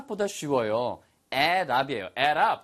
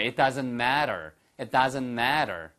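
American "matter" with a tapped t; American accent; 2 semitones lower, much slower than usual. Shown as a demonstration. Teacher models it for students to repeat, American accent. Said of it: "한번 미국식으로 한번 해보실까요".

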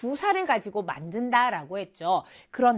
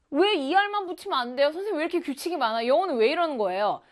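lightly acted student complaint, quick and a bit higher; protesting student; 4 semitones higher, much faster than usual. Pupil asks teacher why English has rules, protesting. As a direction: fire off mock questions like a puzzled pupil.

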